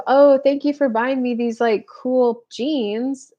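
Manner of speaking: a bubbly thanks for a pair of jeans; mock gushing gratitude; breezy shallow thanks. Shown as a demonstration. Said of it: "Instead of".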